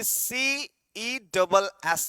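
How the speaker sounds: letters read out slowly, one by one; slow spelling out. Shown as a demonstration. Reading option slowly to class.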